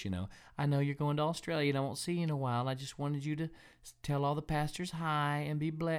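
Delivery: sweet little motherly voice. Retelling a phone call from Mom: mom's sweet little voice. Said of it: "in her sweet little voice".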